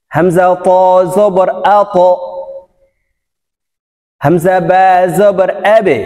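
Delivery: measured spelling, each final sound bounced in "আ ক", "আ ত", "আবে", "আজে", "আদে"; qalqala push. Shown as a demonstration. Teacher drilling "আ ক" through "আদে", pushed qalqala. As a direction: push off the last consonant of "আ ক" to "আদে" with an echo. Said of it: "ধাক্কা দিতে হবে".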